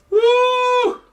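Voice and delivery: high whooping woo. Real, not acted. Host whooping to listeners about old days, high.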